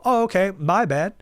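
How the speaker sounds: high, loud, over-eager mock apology; acted apology. Customer answering a curt cashier, exaggerated high-pitched apology.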